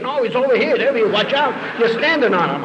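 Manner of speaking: loud, high mock-panic calls; retold frantic shouting. Tunnel workers warning each other during the seizure, frantic retold shouts. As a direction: call out urgently, imitating alarmed workmates.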